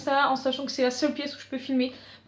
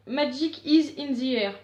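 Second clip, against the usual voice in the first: French-accented English; slower than usual. Real, not acted. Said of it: "vous remarquerez encore mon accent".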